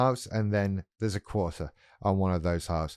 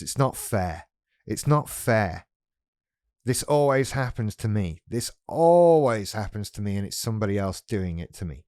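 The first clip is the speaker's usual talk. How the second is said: whiny narcissist voice. Acted. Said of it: "the narcissism in this point goes".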